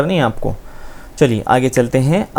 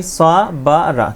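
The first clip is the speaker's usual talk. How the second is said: slow spelling; 2 semitones higher, much slower than usual. Shown as a demonstration. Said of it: "Hindi में देख लीजिए".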